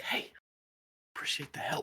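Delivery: whispered, magical unicorn-like creature voice. Narrating a game, the unicorns being ridden glance back at the riders: whispering unicorn voice. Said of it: "start whispering like".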